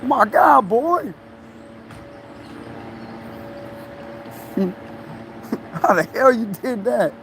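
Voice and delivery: high, panicky mom voice, lightly done; a hint of a mother freaking out; panicking mama. Son imitates his mama panicking over his cut, high and alarmed. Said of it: "she's one of the ones that'll freak out like that".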